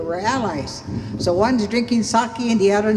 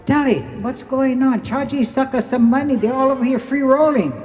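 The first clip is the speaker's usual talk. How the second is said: retold protest; 5 semitones higher, 4 dB louder than usual. Retold scolding of Tally over money.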